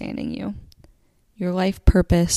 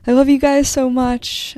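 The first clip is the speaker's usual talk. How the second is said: higher, louder burst of affection; higher and louder with real excitement; gushing love; 6 semitones higher, 6 dB louder than usual. Real, not acted. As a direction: beam it out to your listeners. Gushing sign-off to listeners.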